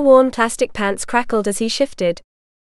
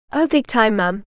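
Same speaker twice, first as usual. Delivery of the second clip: gleeful. Acted. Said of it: "Alyssa called gleefully".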